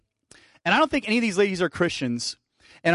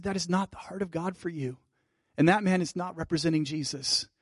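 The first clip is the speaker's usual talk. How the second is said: reassuring; 5 dB quieter than usual. Retold or imitated. Comforting a crying woman.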